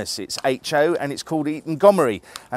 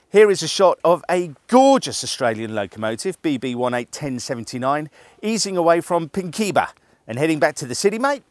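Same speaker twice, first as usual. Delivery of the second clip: a jokey stab at an Australian twang; Australian accent; 3 semitones higher than usual. Acted. Presenter hams up Australian accent introducing a locomotive, lightly put-on. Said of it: "that's my Australian accent".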